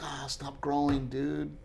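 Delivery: put-on soft plea to a growing child; wistful, tender. Father wishing son stayed small, softly wistful. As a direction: quietly wish him to stay small.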